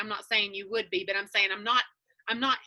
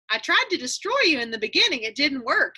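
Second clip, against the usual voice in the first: mock sheepish friend; 4 semitones higher, 3 dB louder than usual. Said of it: "they're all like".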